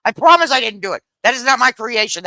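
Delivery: protesting innocence. Retold or imitated. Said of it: "I'm like".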